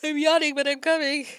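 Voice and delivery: loud call from a distance. Acted. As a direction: shout across the room. Calling out to Layla from afar.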